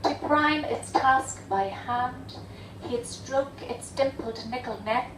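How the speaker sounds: understated, measured poetry reading; poem recitation. Acted. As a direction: read the verse deliberately, a pause after each phrase. Reads poem for father.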